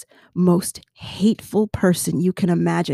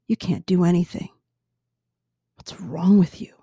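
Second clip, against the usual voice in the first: hateful devil voice. Retold or imitated. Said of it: "that hateful devil voice".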